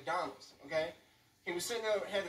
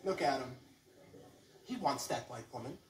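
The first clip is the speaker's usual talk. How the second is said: mock disapproving onlookers. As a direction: mutter it to each other by the wall. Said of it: "people up against the wall like".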